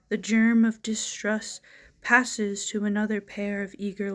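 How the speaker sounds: measured narrative poem recital; poetry reading. Acted. Poet reading a murder mystery poem to viewers, measured recital. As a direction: tell the mystery in verse, line by line.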